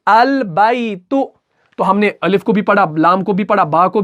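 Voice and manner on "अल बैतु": अल बैतु drawn out very slowly; slow demo reading. Shown as a demonstration. Teacher showing how to read अल बैतु. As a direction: read अल बैतु with the lam still. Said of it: "कैसे पढ़ना है?".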